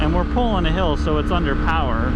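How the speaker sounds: shouting over a roaring engine; yelling inside a helmet. Real, not acted. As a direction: raise your voice over the exhaust noise. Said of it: "yell to even hear over my own self talking".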